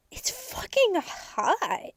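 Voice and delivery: high, slow breathy whisper; sultry whisper. Acted. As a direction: tease it as a whispered secret. Saucy whispered punchline.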